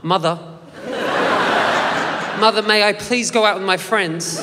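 put-on prim, proper white Australian accent; posh white Australian. Son asking his mum in polite white Australian accent. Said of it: "we spoke very white Australian".

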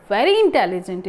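"very" stretched with a rise and fall; stress on very. Shown as a demonstration. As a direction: press on the word "very". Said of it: "giving the pressure to".

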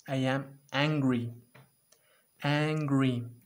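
loud, slow angry growl; hammed-up anger; mock angry. Shown as a demonstration. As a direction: act angry for the kids. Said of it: "¿Qué estoy?".

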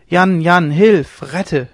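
high, loud call for help, easing off at the end; girl crying out. A narrator's reading. Captive girl calling Jan to save her, crying out. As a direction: cry out desperately for rescue. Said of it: "schrie das Mädchen".

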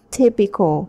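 Typical with TY stressed; stress on first syllable. Shown as a demonstration. Teacher modelling stress for the class, first syllable stressed. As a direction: hit the first part of Typical. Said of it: "Ta nhấn phần một".

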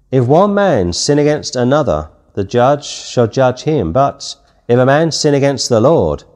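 scripture reading. Acted. Reads scripture aloud.

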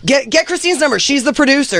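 mimicking him. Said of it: "he's like".

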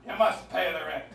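lightly voiced melodrama villain; mustache twirling villain. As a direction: menace her over the rent. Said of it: "very famous sketch ... The Perils of Pauline".

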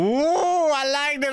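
high, squealing delight; excited squeal. Real, not acted. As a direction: squeal with joy. Squeal at design.

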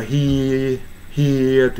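"here" as a drawn-out "hee-a"; R not sounded. Shown as a demonstration. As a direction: hold the vowel of "here" and leave off the r. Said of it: "Rの発音あんまり響かせない".

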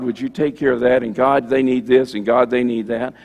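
mock prayer, God's name dropped in like punctuation; rambling prayer parody. Preacher mimicking how people pad prayers, rambling parody. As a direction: run the requests together, punching each one. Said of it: "we don't talk like that".

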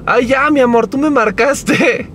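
slow high teasing coo; imitating Mary. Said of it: "Decía".

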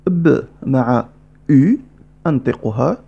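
words stretched out, very slow; slowed explanation. Shown as a demonstration. Teacher repeating slowly: very slow, deliberate. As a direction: spell it out slowly.

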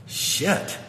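breathy whispered shit; a half-voiced whisper of panic; whispered curse. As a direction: mutter it under your breath in dismay. Overwhelmed by deep question.

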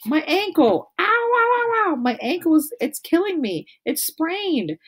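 high, hammed-up pained wail; girl faking an injury to escape, high hammed-up wail; fake wailing. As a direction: overact the twisted ankle. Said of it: "started to wail".

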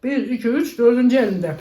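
counting through a full mouth; words round a mouthful of hot wings; mouth full of hot food. Real, not acted. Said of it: "Dolu ağzım".

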